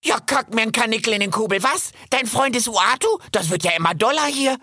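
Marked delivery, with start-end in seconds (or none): 2.1-3.2 incredulous. Acted. Kip repeats in disbelief.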